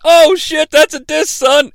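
mock-scandalized excitement; crowd reacting to a diss. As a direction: whoop like an impressed crowd. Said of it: "react like they should, like".

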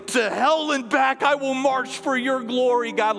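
fervent vow. Retold or imitated. David soldier rising, battle vow.

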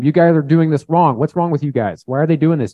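acted indignant complaint; accusing. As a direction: point the blame, playing the accuser. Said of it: "the world is accusing".

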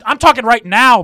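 high, loud demand for the floor; insistent protest. Real, not acted. Friend fighting to keep talking, insistent loud protest.

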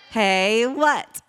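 imitated kids' Southern-accent reply, rising. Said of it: "they say it with an accent".

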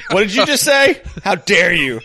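playfully scandalized, starting high; mock outrage. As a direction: act deeply offended, half laughing. Mock outrage at burger question.

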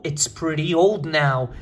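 measured, connected reading; slow model repeat. Shown as a demonstration. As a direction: read it steadily with the contraction. Repete a frase modelo contraída. (leitura pausada e mais ligada)

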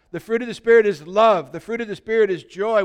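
full-voiced confident recital; strong take. Shown as a demonstration. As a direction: proclaim it boldly. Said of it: "that was a little weak".

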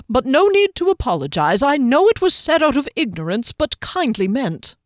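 courteous small gentleman voice; halfling voice. Acted. Halfling Hector voiced in story.

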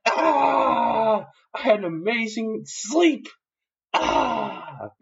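high, exaggerated yawning cry; waking from sleep. Barrel man pops out yawning.

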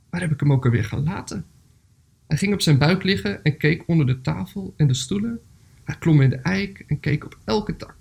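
measured storybook reading with pauses; story narration. A narrator's reading. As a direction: read a gentle animal tale aloud, phrase by phrase. Reads a story aloud.

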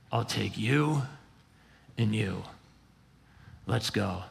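lightly voiced Jesus, softly inviting; gentle invitation. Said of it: "Jesus rolls up and he's like".

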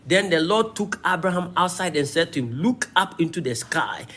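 emphatic, rise-and-fall Bible reading; preacher declaiming a dialogue from scripture. Acted. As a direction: read the passage out to a congregation. Reads scripture aloud.

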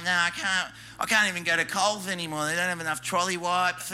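lightly mimicked whinger; whinging complainer. Complainer moaning about going to Coles, mock whinging. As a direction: have a mock grumble, mildly put on. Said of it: "That whinge and complain all the time".

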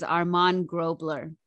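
"Armand Grobler" said the Australian or English way; anglicized name, "Armand Grobler"; English pronunciation. Real, not acted. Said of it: "that is the Australian or English pronunciation".

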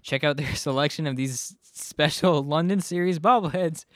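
sponsor read pitched to listeners. Acted. Host plugging London series bobbleheads to listeners, ad read. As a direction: read it out as a podcast advert.

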